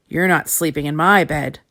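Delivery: big bear booms, stressing my; booming bear voice. Acted. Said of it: "boomed the big bear".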